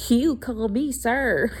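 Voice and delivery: high, slow, put-on officer voice; mocking officer. Imitating officers who wanted to be called sir, high and slow. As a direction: mimic a pompous cop. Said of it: "certain officers I've dealt with".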